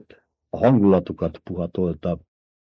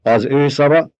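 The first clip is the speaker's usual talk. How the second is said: Paul proclaiming; 5 semitones higher than usual. A narrator's reading. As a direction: declare it like a lord before his people. Paul names Stilgar leader. (ünnepélyes, parancsoló hercegi hang)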